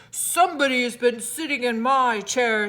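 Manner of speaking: a hint of a gruff papa bear; lightly voiced big bear; great huge bear's gruff voice. A narrator's reading. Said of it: "in his great rough, gruff voice".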